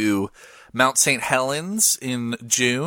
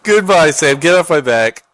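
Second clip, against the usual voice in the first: mock yell; 8 dB louder than usual. Mock shouting at caller.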